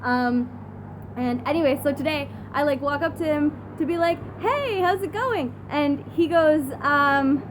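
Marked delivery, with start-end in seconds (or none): 4.4-5.5 retold friendly greeting. Retelling own friendly greeting.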